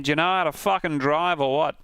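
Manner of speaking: mock Aussie with swooping pitch; imitated Australian accent. Second guess at the voice clip, in an Australian accent. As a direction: imitate an annoyed Australian driver. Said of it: "It was an Australian guy".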